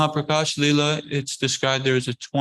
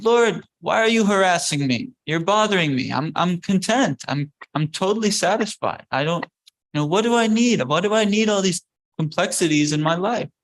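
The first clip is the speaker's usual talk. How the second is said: higher-pitched pleading objection; exasperated protest; 5 semitones higher than usual. Retold or imitated. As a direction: push back as if pestered. Acted devotee refusing the Lord's gifts.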